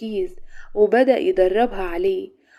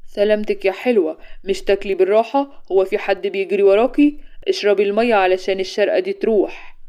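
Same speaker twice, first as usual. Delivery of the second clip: sly; 4 dB louder than usual. Acted. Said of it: "وقال بخبث".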